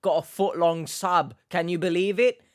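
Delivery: hammed-up boasting to mum; mock proud excitement. Acts himself proudly showing mum the sandwich.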